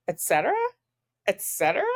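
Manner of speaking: "Et cetera" repeated as a rising, disbelieving question; incredulous echo. Shown as a demonstration.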